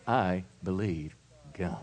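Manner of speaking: soft, low, steady affirmation; quietly and firmly claim it; calm declaration. Shown as a demonstration. Preacher repeating the calm answer to the congregation. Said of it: "take a deep breath and say".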